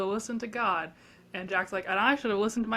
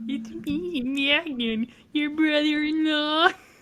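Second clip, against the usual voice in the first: put-on nerdy voice, much higher pitched; 5 semitones higher, 4 dB louder than usual. Discussing an episode, quoting the brother-in-law character: nerdy Magnon voice. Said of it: "this character who kind of a nerdy voice".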